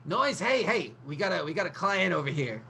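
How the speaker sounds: high, loud call across the room; excited hail across the room. Acted. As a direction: shout over to get Noise's attention. GM voices NPC calling out.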